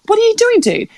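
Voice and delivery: high, incredulous what are you doing; high pitched disbelief, half shouted; exasperated outburst. Retold or imitated. Confused angry inner retort.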